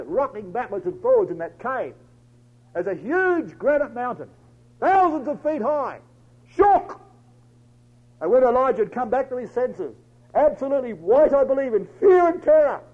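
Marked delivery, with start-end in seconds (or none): 2.7-12.8 building higher and louder; full-force preaching. Acted. Preacher telling of the mountain shaking round Elijah, full-force preaching. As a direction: hurl out the earthquake's violence.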